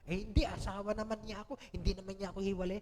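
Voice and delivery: quick, careless mock excuse; tossed-off mock wife's excuse; mimicking young wife. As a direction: rattle it off like a complacent young wife.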